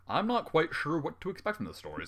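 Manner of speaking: plain reading voice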